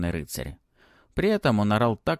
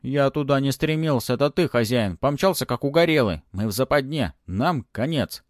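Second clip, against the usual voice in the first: raised, whining little dragon; whiny dragon voice; 5 semitones higher, 4 dB louder than usual. Acted. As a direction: complain like a scared pet dragon. Dragon pet complains. (ноющий голос дракончика)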